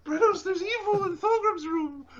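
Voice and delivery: high, loud, laughing call; excited shout. Acted. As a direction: yell it out gleefully.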